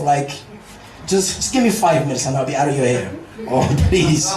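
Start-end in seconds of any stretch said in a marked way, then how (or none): 3.5-4.3 laughing plea. Real, not acted.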